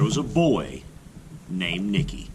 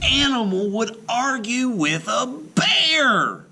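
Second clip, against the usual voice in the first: rhetorical shout; 12 semitones higher than usual. A narrator's reading. Rhetorical bear question.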